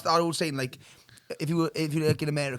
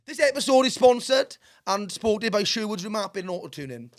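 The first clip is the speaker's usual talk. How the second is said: sponsor read; 3 semitones higher than usual. Real, not acted. Reads sponsor message.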